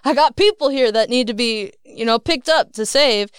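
crying out for help. Retold or imitated. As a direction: call urgently to the passing crowd for help. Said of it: "I'm crying out and saying".

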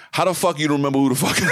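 fast, sassy and rude; bratty attitude. Retold or imitated. Dad imitates his daughter's friend giving him attitude, bratty. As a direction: snap it like a spoiled kid. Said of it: "the way she said it was like".

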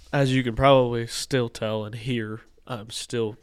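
congested, stuffy nose voice; talking through a stuffed-up nose; blocked nose. Real, not acted. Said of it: "I can't breathe through my nose right now".

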